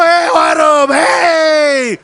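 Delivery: loud, high, whooping cry; joyful shout. Retold or imitated. Imitating a congregant whooping while giving offering, loud. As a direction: whoop as you drop the money in. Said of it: "이러고 들어가더라고요".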